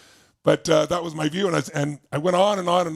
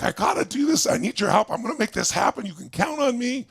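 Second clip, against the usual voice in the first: emotional plea; 6 semitones higher than usual. Retold or imitated. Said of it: "I got really emotional".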